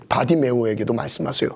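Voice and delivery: ordinary talk, nothing marked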